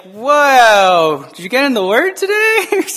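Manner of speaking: mock shocked question. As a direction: tease a grumpy friend with fake astonishment. Mocking shocked onlooker.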